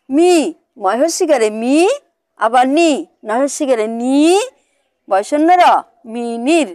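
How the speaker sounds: teacher's paced sounding-out of মিনির with pauses; spelling aloud. Shown as a demonstration. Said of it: "আর একবার বানানটা করি".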